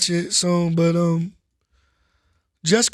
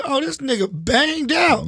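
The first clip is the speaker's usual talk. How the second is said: higher, drawn-out exclamation of onlookers; astonished onlookers; 6 semitones higher, slower than usual. Retold or imitated. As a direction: imitate people reacting, pitched up and slow. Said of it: "they're like".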